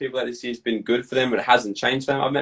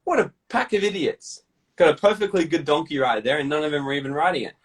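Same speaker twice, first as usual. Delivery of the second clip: mocking villagers; 3 semitones higher than usual. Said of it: "they go".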